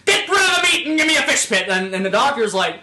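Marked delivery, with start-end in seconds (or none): 0.0-1.7 high, loud hammed-up plea; a silly high voice begging the doctor; mock pleading Timmy. Timmy begs the doctor for surgery in a high hammed-up voice.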